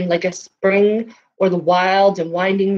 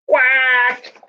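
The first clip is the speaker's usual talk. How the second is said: a weary little quack, a touch higher; tired duck quack; 6 semitones higher than usual. Acted. The worn-out duck answers the farmer with a tired quack. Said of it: "The duck said".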